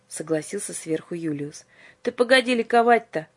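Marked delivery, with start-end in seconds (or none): 2.0-3.3 stopping him short. Acted. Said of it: "остановил его Иоанн".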